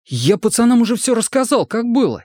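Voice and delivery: high, anxious pleading voice; a scared boy talking fast to save himself; frightened young recruit. A narrator's reading. Сомик оправдывается перед сослуживцами, испуганно и высоко.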